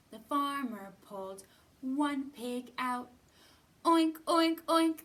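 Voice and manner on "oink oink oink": high, loud pig oinks; hammed-up piglet shout. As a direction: squeal it like an angry pig. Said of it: "that pig did shout".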